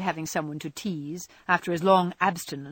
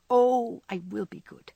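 penitent child imitation; 3 semitones higher than usual. A narrator's reading. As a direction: drolly plead like a sorry child. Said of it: "droll imitation of a penitent child".

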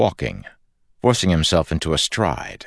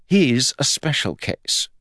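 higher, slow, newly interested reply; perking up; 9 semitones higher than usual. A narrator's reading. Fuzz answering about the Lord Ruler, perking up. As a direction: brighten up, drawing the words out. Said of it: "perking up".

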